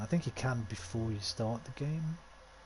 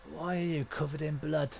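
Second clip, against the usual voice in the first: higher-pitched East London lad; lightly put-on East London accent; 5 semitones higher than usual. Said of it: "I'm kinda giving him that accent".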